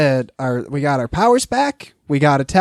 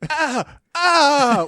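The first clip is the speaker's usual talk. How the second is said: strangled cries; 9 semitones higher than usual. Pretend. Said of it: "Like, like I'm being strangled with one hand".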